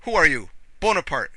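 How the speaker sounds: loud, high shout; shouted challenge. A narrator's reading. Drunk old man challenging an imagined enemy, shouting. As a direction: shout it out as an accusation. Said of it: "shouted Makar Alexeyevich".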